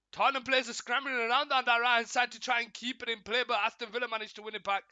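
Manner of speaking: energetic football commentary, punching the action; live play-by-play. Real, not acted. Streamer following Perisic into the box, live play-by-play. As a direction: drive the call along with the attack.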